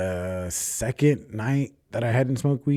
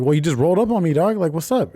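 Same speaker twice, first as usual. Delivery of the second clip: higher, louder mock pushback; defensive pushback; 10 semitones higher, 3 dB louder than usual. Squaring up to the stranger, a raised defensive challenge. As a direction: stand your ground, a bit louder and up.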